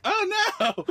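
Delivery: laughing, hammed-up cry of dismay; mock wail. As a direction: wail it like a kid, half laughing. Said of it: "we're all, like, just crying".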